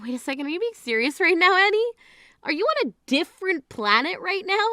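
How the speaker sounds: can't believe what she hears; incredulous. Acted. Sister stunned by bride's wedding demand, incredulous.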